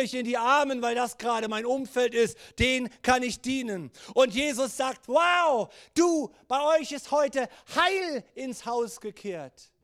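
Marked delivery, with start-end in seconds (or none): 5.1-9.7 excited shout. Acted. Jesus calls out to Zacchaeus.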